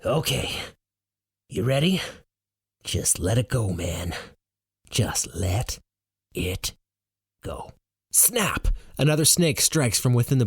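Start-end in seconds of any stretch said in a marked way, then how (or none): 0.0-7.7 soft, fading hush; softer and softer calm guidance; calm whisper. Acted. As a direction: coax him gently to let go. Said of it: "speaking in a calm whisper".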